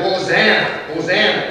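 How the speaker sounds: loud joyful cry of Hosanna; shouted hosanna. Acted. Pastor acting the palm crowd for kids, joyful shout. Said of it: "And they shouted".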